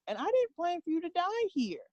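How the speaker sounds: mock scolding, pitch rising and falling on the key words; God's scolding. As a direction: imitate God giving a pointed warning. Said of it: "this is the way he talks to me".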